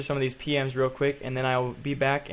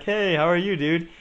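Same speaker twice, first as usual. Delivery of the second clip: friendly greeting; 4 semitones higher, 3 dB louder than usual. Retold or imitated. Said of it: "I'm like".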